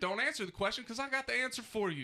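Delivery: worked up. Real, not acted. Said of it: "He's so angry".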